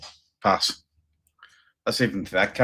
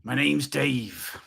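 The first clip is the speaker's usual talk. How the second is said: slow ghost voice; 3 semitones higher, 3 dB quieter, much slower than usual. Pretend. Mock ghost voice joke.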